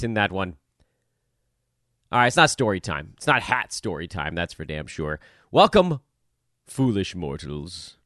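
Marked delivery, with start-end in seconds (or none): 5.5-8.0 booming demon lord. Pretend. Spooky host greeting, Haunted Mansion style.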